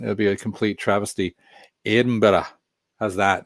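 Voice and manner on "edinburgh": "Edinburgh" said in a lightly put-on Scottish accent; a half-hearted Scottish take on "Edinburgh"; mock Scottish accent. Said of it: "do a Scottish accent".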